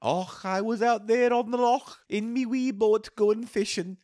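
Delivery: put-on high, slow old fisherman yarn; leprechaun voice. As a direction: draw out the tale like a storyteller. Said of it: "wait, I'm doing a story".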